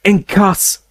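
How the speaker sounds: high roared curse; Harry roaring a curse at Snape; roared spell. Acted. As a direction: roar the spell out. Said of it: "Harry roared".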